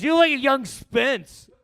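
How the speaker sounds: imitating Pete Ness. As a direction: mimic the friend grabbing your shirt. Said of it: "he goes".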